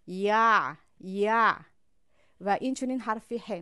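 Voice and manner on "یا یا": یا sung out loud with a strong throat push; loud drill. Shown as a demonstration. Teacher drilling the sound loudly for students. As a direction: belt یا with the ع squeezed. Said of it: "از مابین باید خارج شود".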